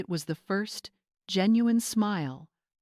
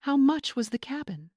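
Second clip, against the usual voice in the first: demanding; 7 semitones higher than usual. A narrator's reading. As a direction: press her for the number. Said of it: "Greg demanded".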